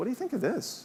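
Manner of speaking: sheepish, soft, high-pitched voice. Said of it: "kinda sheepishly kinda went up to people".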